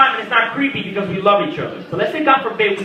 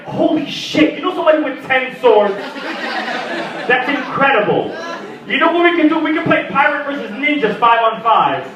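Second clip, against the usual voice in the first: excited; 4 semitones higher than usual. Retold or imitated. His delighted excitement over swords.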